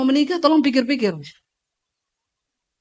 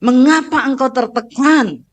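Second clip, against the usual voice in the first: speaking to your soul; slower than usual. Shown as a demonstration.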